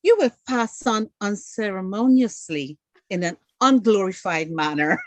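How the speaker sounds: a hint of mock-formal English; proper English. Shown as a demonstration. Mock-polite alternative, lightly formal English. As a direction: put it in overly grand, proper words. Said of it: "Why not say".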